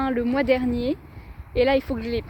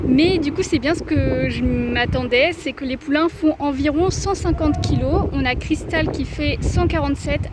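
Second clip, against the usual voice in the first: raised voice against the wind; shouting over wind; 3 dB louder than usual. Real, not acted. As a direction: talk louder so the wind won't drown it. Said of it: "j'espère que vous m'entendrez avec le vent".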